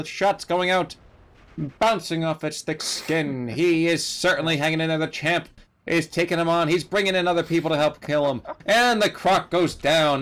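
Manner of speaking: old-time ringside boxing announcer, hammed up; 1920s boxing announcer. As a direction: call the fight like an old radio boxing announcer. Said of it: "today's Shoutcast was brought to you today by nineteen twenties Boxing".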